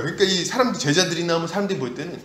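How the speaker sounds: normal talking voice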